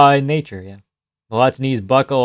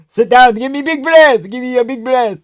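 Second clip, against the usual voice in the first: much higher put-on coach voice; mock cornerman; 11 semitones higher, 4 dB louder than usual. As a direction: play the corner coach between rounds, hammed up.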